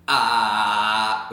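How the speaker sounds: hard pressed ah; aggressive cord closure. Shown as a demonstration. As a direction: slam the cords shut on ah. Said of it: "Some people go too aggressive with this".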